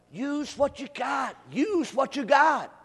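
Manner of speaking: emphatic preaching refrain; preacher's exhortation. Real, not acted. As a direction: call it out to the congregation as a slogan.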